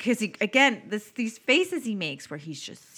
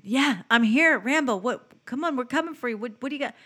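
eager radio reply; 3 semitones higher, 4 dB louder than usual. Retold or imitated. Plays eager man on the radio.

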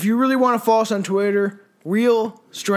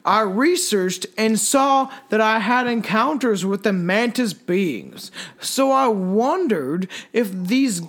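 spooky story reading. Acted. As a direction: read it like a creepy trip tale. Reads a trippy story in a slow, hushed voice.

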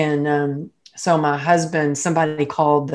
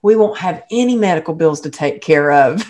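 daughter's voice; 5 semitones higher, 3 dB louder than usual. Retold or imitated. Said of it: "she goes".

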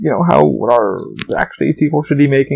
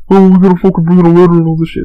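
mock complaining; 3 semitones higher, 5 dB louder, faster than usual. Mocking complaining coworkers.

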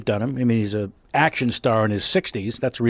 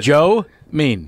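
gruff Statham mumble; 4 dB louder than usual. Shown as a demonstration. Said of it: "That's it".

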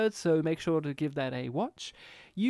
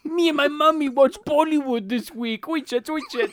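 mock kid voice; 8 semitones higher, 5 dB louder than usual. Mocking cohost in a voice.

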